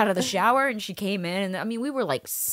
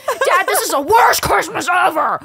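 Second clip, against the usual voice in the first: whiny complaint; 11 semitones higher, 7 dB louder than usual. Retold or imitated. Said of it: "I'm like".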